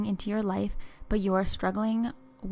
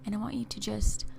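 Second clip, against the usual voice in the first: guided visualization. Acted. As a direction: ease the listener along, unhurried and hushed.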